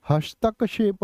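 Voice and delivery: "हस्तक्षेप" broken as hastak, then shep; "हस्तक्षेप" said carefully with क and श both sounded; careful correct pronunciation. Shown as a demonstration. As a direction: spell out the k-sh join in "हस्तक्षेप". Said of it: "क्या बोलोगे?".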